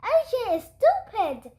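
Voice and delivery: loud repeated taunt ringing back; echo yelling back. Acted. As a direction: bounce it off the walls. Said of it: "yelled the gym".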